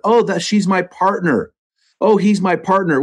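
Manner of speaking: imitating people who call a spouse partner; mocking quote. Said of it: "It's the word partner".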